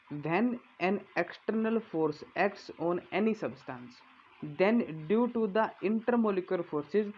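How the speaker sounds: slow, measured reading of a definition to copy down; slow dictation read. Acted. Teacher dictating a definition to students, slow and measured. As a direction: read it out word by word so students can write it.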